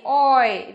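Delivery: "Oi" alone, loud, gliding from "o" to "i"; vowel demonstration. Shown as a demonstration. Teacher names the sound in choice, modelling "Oi". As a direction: sound out the "Oi" diphthong firmly. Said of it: "tức là gì?".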